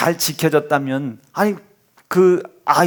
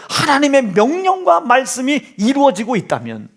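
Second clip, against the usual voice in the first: higher, stressing 명령과 in 하나님의 명령과 말씀이; emphatic preaching; 6 semitones higher than usual. Shown as a demonstration. Preacher pressing the point to the congregation, higher. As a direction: drive the line home, higher. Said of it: "same line".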